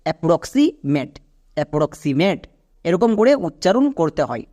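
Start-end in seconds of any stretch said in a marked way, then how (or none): 0.1-1.1 অ্যাপ্রক্সিমেট said slowly, parts still audible; careful, slow teaching pronunciation; slow joined-up demo. Shown as a demonstration. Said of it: "এবার একসঙ্গে উচ্চারণ করো". 1.6-2.4 অ্যাপ্রক্সিমেট run together as one word; whole-word teaching demo; joined-up pronunciation. Shown as a demonstration. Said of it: "এবার একসঙ্গে উচ্চারণ করো".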